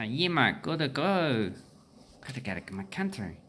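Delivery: failed attempt at an Aboriginal Australian accent; badly faked Aboriginal accent. Shown as a demonstration. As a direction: attempt an Aboriginal accent, starting high and settling. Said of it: "that was definitely not an Aboriginal".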